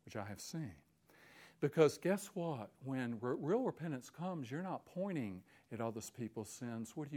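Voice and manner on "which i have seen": hushed unvoiced confession; whisper. Real, not acted. Preacher whispering to the congregation. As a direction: drop to a breathy secret whisper.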